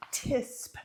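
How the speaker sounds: "tisp" said as one short word; abbreviation as a word. Retold or imitated. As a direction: say "tisp" like a word, rhyming with "lisp". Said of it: "what is that Sleeping Beauty says?".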